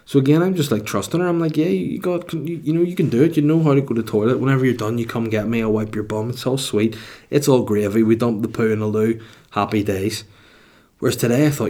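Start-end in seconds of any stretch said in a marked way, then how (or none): 1.6-10.2 put-on light, upbeat coaxing of a toddler; reassuring dad voice. Dad reassuring his two-year-old, lightly coaxing. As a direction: cheer on a little one at the potty.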